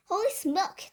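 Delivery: high, startled exclamation; yelling. A narrator's reading. Cook feels the mouse climbing his leg, yelling. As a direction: yelp it out in alarm. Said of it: "the man was yelling".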